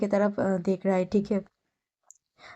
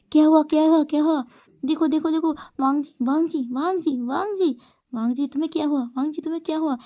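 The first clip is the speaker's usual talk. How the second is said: higher, alarmed calls of his name; panicked calling; 5 semitones higher than usual. Acted. Crowd panicking over fainted Wangji, alarmed high calls. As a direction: call out in a panic as he collapses.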